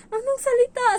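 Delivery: loud high disbelieving ask; surprised employer. Retold or imitated. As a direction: ask it wide-eyed. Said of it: "Sabi niya".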